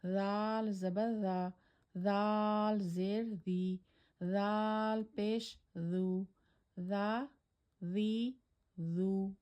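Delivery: zal soft, tongue between teeth, no whistle; no hiss, keep zal soft. Shown as a demonstration. Teacher demonstrating soft zal without whistle. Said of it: "soft letter without whistle".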